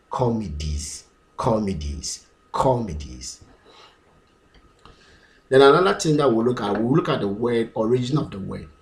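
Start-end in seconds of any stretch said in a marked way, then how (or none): 0.1-3.4 "comedies" as KAW-mi-deez, falling after CO; plural with "mi". Shown as a demonstration. Teacher drilling the plural, falling tune. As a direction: stress CO in "comedies", short "mi" in the middle. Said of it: "And this is me".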